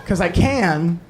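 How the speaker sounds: reluctant cop. Retold or imitated. Cop near end of shift offering report, reluctant. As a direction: offer it as if hoping for a no. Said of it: "He said it like I walked into T G I Fridays ten minutes before they closed".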